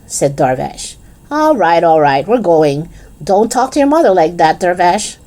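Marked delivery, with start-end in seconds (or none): 1.3-5.2 mock angry shout. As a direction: pretend anger at her son. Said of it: "she shouted, pretending to be angrier".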